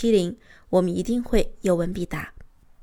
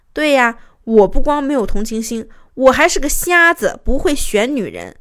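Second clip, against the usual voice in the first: louder mock-agreement, acted sarcasm; sneering husband; 3 semitones higher, 5 dB louder than usual. Husband mocking his wife's accusation, retold sneer. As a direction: imitate his scornful sarcastic comeback. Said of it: "我老公他居然冷笑着说".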